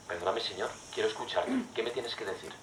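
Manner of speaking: quiet, humble plea; soft prayer. Pretend. Believer asking the Lord's forgiveness, softly. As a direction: pray it under your breath. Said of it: "y dices".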